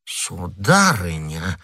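slow, hesitant address; a touch of timidity; cowed husband. Acted. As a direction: draw the word out, mildly intimidated. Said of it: "струсивший перед семейной бурей".

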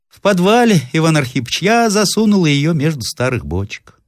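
put-on an old woman who can't believe her ears; disbelieving old woman, voice climbing; astonished old woman.

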